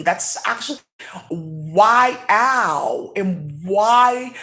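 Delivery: drawn-out bewildered questioning with sudden loud whys; lightly put-on dazed voice, stretched slowly; imitating how they talk. Imitating beings on meth asking why, in a drawn-out voice. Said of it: "That's how they talk, 'cause they're on meth".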